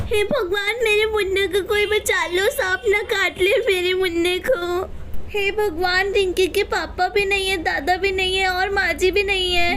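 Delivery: acted tearful pleading; crying. Mother begs God to save her baby, acted crying. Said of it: "रोने लगती है".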